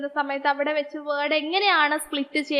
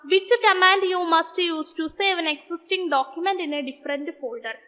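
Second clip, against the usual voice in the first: drawn-out, very slow question read; slow quiz reading; 2 semitones higher, much slower than usual. Acted. Teacher reading a quiz question to students, very slow and measured. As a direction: read the exam question word by word, very slowly.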